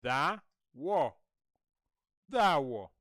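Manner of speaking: "The war" said as "da-wo"; teaching dawo. Shown as a demonstration. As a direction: open "da", then round "wo" for "The war". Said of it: "can you say this?".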